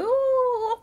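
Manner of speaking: HÚT stretched high and loud; long drawn-out word. Retold or imitated. Narrator showing boy draining the drink, "hút" drawn out high. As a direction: hold "hút" on one high note like an endless sip. Imitates one long greedy sip.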